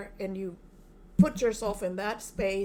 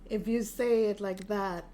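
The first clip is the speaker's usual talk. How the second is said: aggressive. Shown as a demonstration. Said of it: "it comes out like an aggressive".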